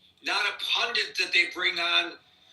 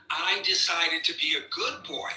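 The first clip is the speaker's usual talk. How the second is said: sarcastic; 3 dB quieter than usual. Retold or imitated. Host mocking the president's own words, sarcastic. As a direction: sneer the quote as if it's ridiculous. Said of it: "That's my sarcasm".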